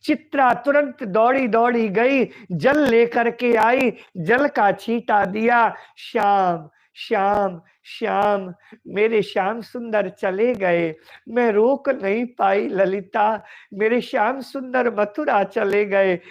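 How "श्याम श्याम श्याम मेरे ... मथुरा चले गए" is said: forlorn lament. Acted. Radha coming round from a faint to Lalita, forlorn and subdued.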